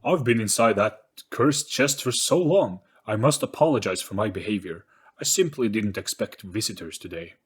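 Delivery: welcoming ghost. Acted. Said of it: "Its voice also followed this change".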